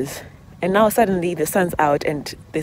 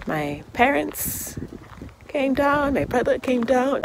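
holding back tears; 9 semitones higher, 6 dB quieter, slower than usual. Real, not acted. Grief, near tears.

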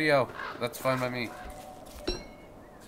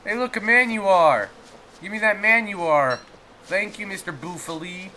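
much higher, bouncy and sweet; cutesy high voice; 8 semitones higher, 4 dB louder than usual. Acted. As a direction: coo at the beefalo like a child.

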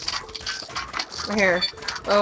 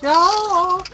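sharp loud cry of protest; 10 semitones higher, 9 dB louder than usual. Real, not acted. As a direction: yell it out. Game setback.

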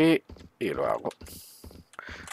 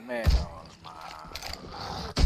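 very slow, lower, softer sigh of relief; drawn-out relief; 7 semitones lower, 4 dB quieter, much slower than usual. Real, not acted. Gamer to viewers after the fight, long relieved sigh. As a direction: let the words melt out in relief.

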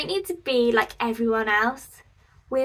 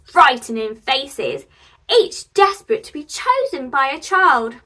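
put-on lively storybook reading for kids; story narration. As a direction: read it out like a cosy picture-book storytime. Reads a picture book to children.

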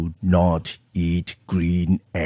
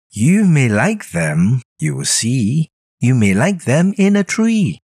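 higher, eager coaxing little voice; Sam-I-Am voice; 8 semitones higher than usual. Acted. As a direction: pester him sweetly with the offer. Sam persuading.

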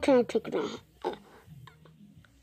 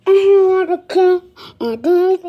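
loud mock-villain line; playful loud mock threat; mock menace; 5 semitones higher, 7 dB louder than usual. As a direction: ham up the threat. Kid playing a scene.

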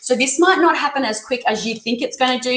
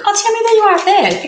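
much higher, louder, fast greeting; light up at seeing her; delighted surprise; 11 semitones higher, 6 dB louder, faster than usual. Real, not acted. Reader spotting a regular viewer in chat, delighted.

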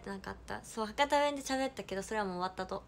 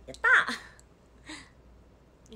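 very slow, louder stretched yay; drawn-out cheer; 6 semitones higher, 10 dB louder, much slower than usual. Real, not acted. Streamer thanking a viewer for the hair compliment, drawn-out cheer. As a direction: savor the happy yell.

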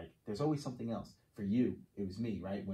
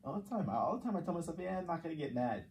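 much higher, eager all the time; emphatic agreement; 8 semitones higher than usual. Real, not acted. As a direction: jump in hard, nodding along. Exclaiming agreement, self-mocking.

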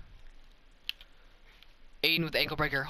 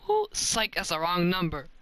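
taunting; 3 semitones higher than usual. Retold or imitated. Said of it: "I was like".

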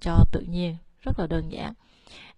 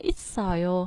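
있어요 with 있 pitched up; wrong high start; faster than usual. Shown as a demonstration. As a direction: lift 있 instead of dropping it. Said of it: "있어요 là đang đọc lên rồi".

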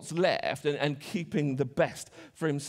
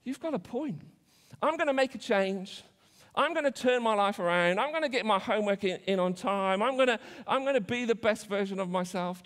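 mock inspired resolve; 3 semitones higher than usual. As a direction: play it as sarcastic fake enthusiasm. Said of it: "I'm like".

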